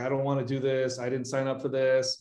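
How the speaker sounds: mock-tearful, put-on teary voice. Retelling what her companion said as they both got teary: imitating someone teary. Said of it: "we both started getting teary".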